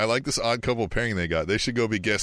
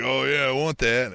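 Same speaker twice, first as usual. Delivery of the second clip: put-on Southern accent; 2 semitones higher than usual. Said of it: "I don't know why it's Southern again".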